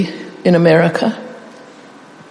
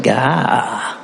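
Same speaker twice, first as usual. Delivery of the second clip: mock TV exclamation; 7 semitones lower, 4 dB quieter than usual. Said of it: "somebody saying".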